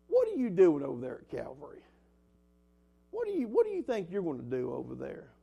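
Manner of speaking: devil's mild, needling mockery; mocking. Preacher voices the devil taunting him about his work, lightly mocking. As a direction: belittle the young preacher with mock disbelief. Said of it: "that's a mockery from the enemy".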